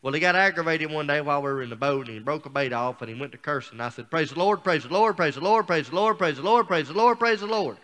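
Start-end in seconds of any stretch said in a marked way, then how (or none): 4.1-7.8 each praise the Lord higher and louder, rising at the end; insistent building praise. Retold or imitated. In the boat, answering his friend's cursing with building praise. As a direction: pile them on, getting louder each time. Rapid repeats while he curses.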